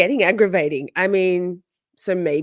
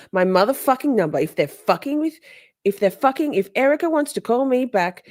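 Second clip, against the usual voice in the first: pitched-up, louder mock rant; hammed-up angry caller, higher; mocking Katie; 7 semitones higher, 4 dB louder than usual. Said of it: "She says".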